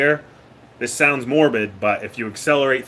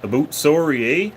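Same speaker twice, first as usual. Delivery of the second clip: put-on Canadian accent; 4 semitones higher than usual. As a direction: tease like a hammed-up Canadian, a bit higher. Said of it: "my best impersonation of a Canadian".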